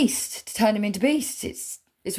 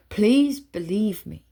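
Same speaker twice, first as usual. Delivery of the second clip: pleading; 3 semitones higher, 4 dB louder, slower than usual. Real, not acted. Pleading with the audience.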